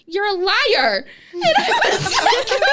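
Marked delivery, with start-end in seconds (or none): 0.1-1.0 high retold accusation through laughter; high, giggly mock indignation; laughing mock accusation. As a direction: accuse playfully, cracking up.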